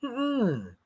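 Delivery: a quiet headshake in the voice; God quietly refusing Titan's plea; gentle no. Retold or imitated. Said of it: "God told me".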